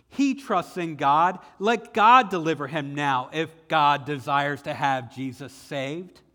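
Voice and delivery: scoffing onlooker. Acted. Passersby deride Jesus on cross.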